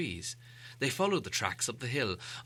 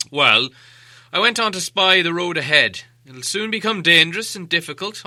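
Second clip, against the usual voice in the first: put-on louder, higher old wizard telling his tale; Gandalf the wizard; 4 semitones higher, 10 dB louder than usual. A narrator's reading. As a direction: explain yourself like a patient wizard. Gandalf voiced in story.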